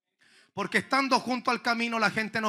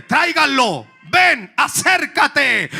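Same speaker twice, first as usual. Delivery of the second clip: calling him over; 5 semitones higher, 7 dB louder, slower than usual. Acted. Jesus calling the blind man.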